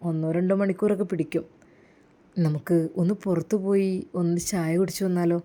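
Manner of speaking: low, smooth pushy suitor; sleazy villain. Acted. Jaseer tries to lure Rasiya from hospital, low and smooth. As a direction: coax her out for tea.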